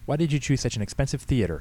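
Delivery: querulous complaint; grousing. A narrator's reading. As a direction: grouse at the pastor about it. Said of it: "Henrietta groused".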